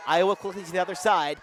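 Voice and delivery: energetic basketball commentary, rising to excited calls; live play-by-play. Real, not acted. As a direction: call the game live, surging on the big shot.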